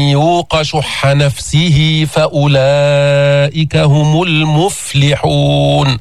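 slow, measured tajweed recitation; Quran recitation. Shown as a demonstration. Teacher recites the verse for the class. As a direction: chant the verse slowly and carefully.

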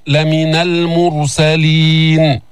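المرسلين slowly with a thick r; راء مفخمة; heavy r. Shown as a demonstration. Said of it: "فخم الراء".

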